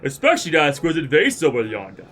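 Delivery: a lightly voiced noble, slyly pleased; sly gentleman. Lord Manderville answering Dorota, smug and courtly.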